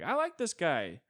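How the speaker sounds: high, loud, eager dog chatter; excited dog voice. Acted. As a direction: gush like a happy dog. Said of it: "the dog's just sitting there like".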